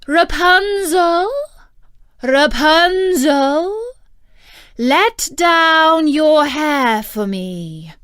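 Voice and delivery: enchantress calling up. A narrator's reading. Enchantress calling to Rapunzel in the tower, loud and drawn out. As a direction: call up to the tower window, drawing out each name. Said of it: "she placed herself beneath it and cried".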